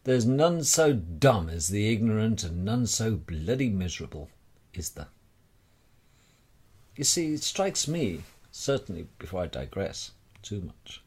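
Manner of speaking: ordinary delivery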